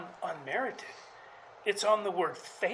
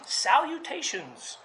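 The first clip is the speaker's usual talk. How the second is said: put-on a light, drawn-out nod to a fussy genius kid; Eugene's salutations; 6 semitones higher, slower than usual. Pastor quoting a radio character to the congregation, lightly voiced and slow. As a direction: stretch the word slowly, a hint of Eugene. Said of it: "fans of Eugene on Adventures in Odyssey".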